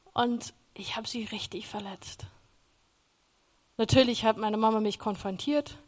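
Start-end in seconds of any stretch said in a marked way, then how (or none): 0.1-2.3 whispered confession; real whispered regret. Real, not acted. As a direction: say it under your breath, ashamed. Confessing hurting mother and grandmother.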